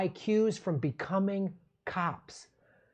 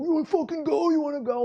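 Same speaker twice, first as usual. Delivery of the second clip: mock angry taunt; 9 semitones higher, faster than usual. Meth heads taunting from car.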